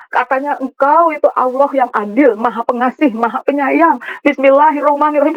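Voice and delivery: insistent protest, pitch lifting at the end; retold anger at God. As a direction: throw the holy names back as an accusation. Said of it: "masih terus marah sama Tuhan".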